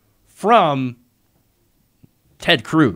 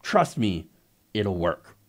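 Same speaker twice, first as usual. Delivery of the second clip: scheming adviser; 3 semitones lower than usual. Pretend. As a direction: murmur it like a sly schemer. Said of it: "Stephen Miller, uh, inside the Trump administration said".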